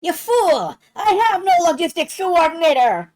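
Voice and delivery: loud, high, shrieking cartoon villain; over-the-top enraged villain yell; Cobra Commander. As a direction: screech it like a furious villain boss. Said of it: "It's basically just Cobra Commander".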